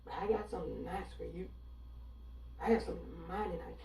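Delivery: quick, soft Southern hospitality voice; a hint of a sweet Southern drawl. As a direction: purr it like a Southern hostess. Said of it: "that thick Southern drawl".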